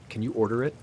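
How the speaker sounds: flat, lifeless delivery; monotone voice. A narrator's reading. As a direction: say it with no expression at all. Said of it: "in a flat, monotone voice".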